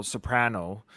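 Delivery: soprano said so-PRAN-o, slowly; short "a" as in cat in soprano; slow, sounded-out soprano with a "pran" middle; soprano as spelled. Shown as a demonstration. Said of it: "S O P R A".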